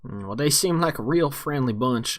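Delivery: mildly sarcastic bartender, slightly put on; understated sarcasm from a barkeep. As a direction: lay on a little dry irony, in character. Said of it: "that's called sarcasm".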